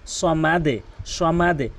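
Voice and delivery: সমাদে with the দ bounced down; correct qalqala. Shown as a demonstration. Teacher correcting সমাদ to সমাদে. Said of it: "কী বলতে হবে".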